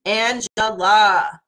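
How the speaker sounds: Angela said slow; slow sounding of the name Angela; drawn out. Shown as a demonstration. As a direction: stretch out each syllable of Angela. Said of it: "And have fun with it".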